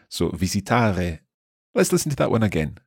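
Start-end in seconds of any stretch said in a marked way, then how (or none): 0.3-1.2 visitare with a guttural French-like R, slowly; guttural northern R. Shown as a demonstration. Teacher demonstrating visitare with a guttural R. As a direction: say visitare with a throaty uvular R, northwest Italian style. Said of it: "where the R sound becomes a R".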